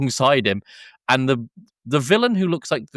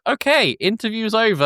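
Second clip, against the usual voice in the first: reporter cutting it short; 11 semitones higher than usual. Retold or imitated. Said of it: "and then she goes".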